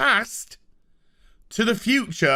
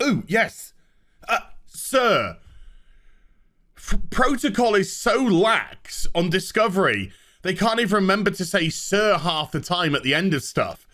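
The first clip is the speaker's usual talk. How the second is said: mock crew voice. Mocking the Discovery crew's reply.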